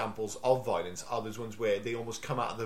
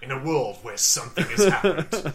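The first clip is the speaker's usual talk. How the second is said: Trailer Man impression; 5 dB louder than usual. Co-host turning the film's plot into a parody trailer, mock-epic narrator. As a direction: stretch each phrase with mock-epic weight. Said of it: "you sounded like Trailer Man".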